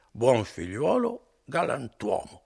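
tipsy Renzo echoing the praise; drunken echo. Acted. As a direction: parrot it back proudly. Drunk Renzo echoes the flattery.

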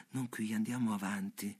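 softly murmured invitation. A narrator's reading. Woman murmuring to the man whose arm would embrace her, murmured. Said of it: "ella mormora".

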